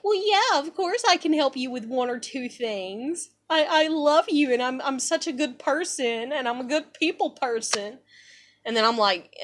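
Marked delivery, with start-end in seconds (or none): 0.0-8.0 mocked false helper. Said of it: "And then they're like".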